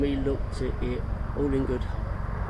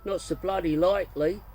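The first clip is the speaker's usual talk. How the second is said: raised, louder shout back in chorus; bellowed chorus; 6 semitones higher, 5 dB louder than usual. A narrator's reading. Kids bellow back at Fred in playful loud chorus. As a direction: bellow it back at him in fun. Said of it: "bellowed back at him in unison".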